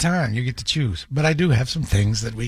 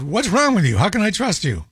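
higher-pitched exasperated demand, volume held; retold scolding, pitched up; yelling without raising voice; 5 semitones higher than usual. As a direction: demand an answer, indignant but not shouting. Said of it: "I didn't raise my voice, but I said".

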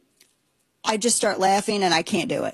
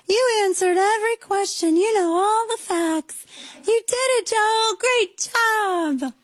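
put-on much higher, slow sing-song praise like to a small child; talking to a toddler; 13 semitones higher than usual. Mocking Jill Biden praising Joe like a toddler, high sing-song. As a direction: coo it as if praising a three-year-old. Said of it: "if my dogs hear me talk like this".

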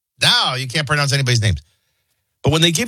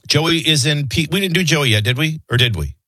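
ordinary talk

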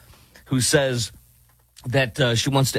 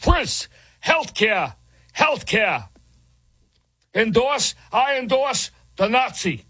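high, slow, dopey mimicry; mocking impression; 11 semitones higher, slower than usual. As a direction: drawl it like a clueless fan. Mimicking the candidate's supporters.

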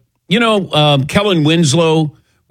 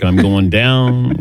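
slow mock fall; 3 semitones lower, slower than usual. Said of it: "the leaning tower of Patrick".

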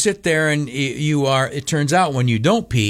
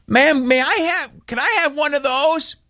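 much higher, sweetly polite ask; mock polite request; 12 semitones higher than usual. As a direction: ask the clerk all sweetness. Politely asking pharmacy clerk.

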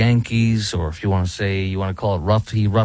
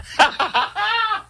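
high laugh. Real, not acted. Laughs at own bad impression.

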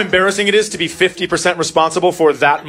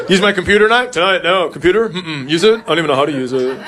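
put-on denying twelve-year-old; 3 semitones higher than usual. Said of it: "here's how a twelve-year-old boy denies something".

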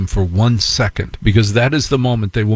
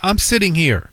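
mother; 8 semitones higher than usual. Retold or imitated. Mother voiced in story.

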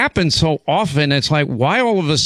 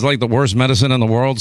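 ordinary talk

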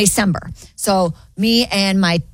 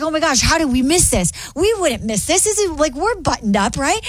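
mock freak-out; 6 semitones higher than usual. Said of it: "she's, like, freaking out".

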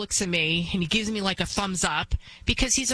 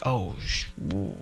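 mock scared; 9 semitones lower, 3 dB quieter than usual. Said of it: "I would be like".

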